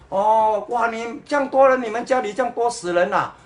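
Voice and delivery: ordinary talk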